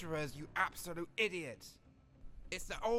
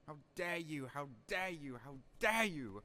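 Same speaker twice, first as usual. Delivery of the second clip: quiet seething. Acted. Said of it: "repeated building rant".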